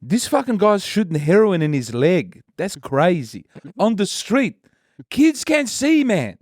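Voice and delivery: mocking the YouTuber's street commentary; imitating Spanion. Guest impersonating the YouTuber in a Wog accent. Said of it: "being like".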